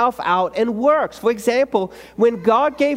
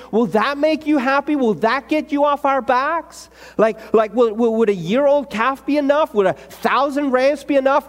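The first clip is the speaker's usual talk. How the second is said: eye-rolling exasperation; 2 semitones higher than usual. Retold or imitated. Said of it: "they're rolling their eyes as God is talking".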